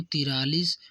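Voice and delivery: तिरालीस said with "tiraa-" in place of "taintaa-"; mispronunciation. Shown as a demonstration. Teacher showing students' slip, mispronounced तिरालीस. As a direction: say तिरालीस, the faulty form of forty-three. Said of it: "बोलने की गलतियां होती".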